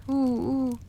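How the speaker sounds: wailing lament. A narrator's reading. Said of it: "pleura et se lamenta en criant".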